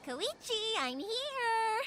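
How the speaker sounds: calling out. Acted. Calling out on arrival.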